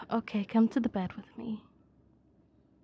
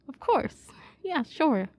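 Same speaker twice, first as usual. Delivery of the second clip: overeager; 5 semitones higher, 4 dB louder, slower than usual. Acted. Overeager agreement to bathe.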